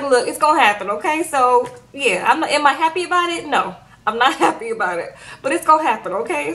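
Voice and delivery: mock Nigerian accent, resigned; imitating a Nigerian accent, shrugging it off; a light Nigerian accent, reluctant acceptance. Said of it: "my Nigerian accent".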